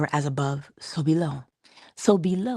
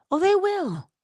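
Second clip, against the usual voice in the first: much higher, bright insistence; emphatic high assurance. Real, not acted. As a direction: promise it with a big lift. Insisting others will respond.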